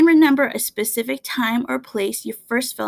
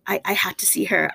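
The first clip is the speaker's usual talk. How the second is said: whisper; 2 semitones lower than usual. Retold or imitated. Retold inner thought, whispered.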